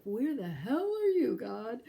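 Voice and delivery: loud, high cry flung at the sky; angry outburst. Retold or imitated. Wife raging at God in the car, loud and high. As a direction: hurl it at God in a tantrum. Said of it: "I throw a, uh, temper tantrum".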